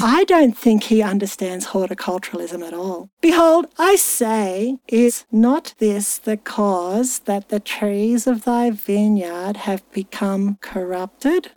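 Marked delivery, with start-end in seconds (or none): 3.2-11.5 slow, drawn-out scripture recital; scripture reading. Acted. Host reading a baffling verse to co-hosts, slow recital. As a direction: read the verse slowly and deliberately.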